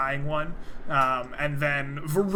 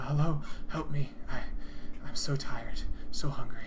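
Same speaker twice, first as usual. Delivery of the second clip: soft weak voice. Acted. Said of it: "in a soft and kind of weak voice".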